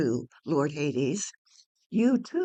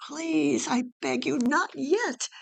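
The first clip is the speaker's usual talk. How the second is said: pleading; 7 semitones higher than usual. Acted. Orpheus begs Hades.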